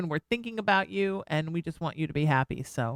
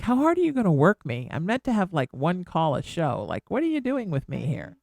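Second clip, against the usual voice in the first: voicing Skype. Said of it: "Skype's like".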